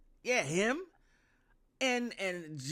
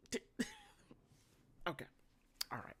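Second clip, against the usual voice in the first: laughter cracking way up high; breaking into laughter; 13 dB quieter, much faster than usual. Real, not acted. Vlogger cracking up at her own joke. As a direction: crack up and trail off.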